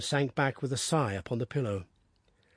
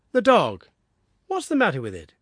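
urgent question; 5 semitones higher, 5 dB louder than usual. Acted. Anxious father asks about dog.

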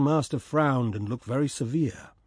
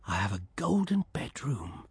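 softer, content murmur; softly to himself; 3 semitones lower, 5 dB quieter than usual. Acted. Swallow settling on the statue, softly to himself. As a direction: say it softly, pleased, to yourself. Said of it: "he said softly to himself".

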